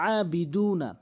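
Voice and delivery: "আবিদুনা" starting with mid-throat ayn; correct ayn. Shown as a demonstration. Teacher correcting, "আবিদুনা" with throat ayn. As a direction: open "আবিদুনা" on a long throaty a. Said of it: "আইনের উচ্চারণ করতে হবে".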